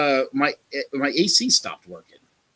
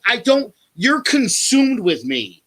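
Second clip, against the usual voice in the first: re-enacted angry tirade, pitched up; worked-up, insulting rant; retold screaming; 5 semitones higher than usual. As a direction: act out telling someone off. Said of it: "I'm screaming this".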